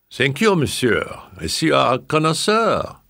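high voiced grand old madame; old French lady. A narrator's reading.

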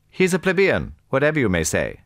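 high, loud aristocratic dismissal; scornful prince. A narrator's reading. Prince Hippolyte dismisses Napoleon as common, scornful. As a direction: declare it high and emphatically.

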